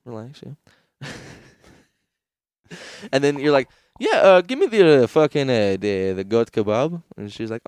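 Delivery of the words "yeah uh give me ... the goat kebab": loud customer voice. Retold or imitated. Ordering kebab, acted customer.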